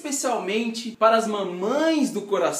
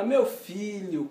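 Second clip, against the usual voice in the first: slow, tender "Meu filho" said softly; with all the love; 6 dB quieter, much slower than usual. Retold or imitated. Mother soothes her crying son, tender and soft. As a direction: comfort him gently and slowly. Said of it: "com todo amor".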